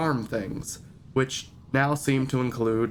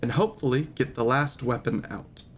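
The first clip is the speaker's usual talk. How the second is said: recap narration. Acted. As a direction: tell the story so far. Reads recap of last session.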